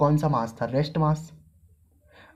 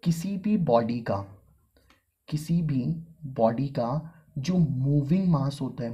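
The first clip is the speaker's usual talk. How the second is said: slow and deliberate, each word weighted; teacher stressing key words; emphatic repetition; slower than usual. Shown as a demonstration. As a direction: lean on किसी भी so it sinks in. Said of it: "मेरे words को mark करना".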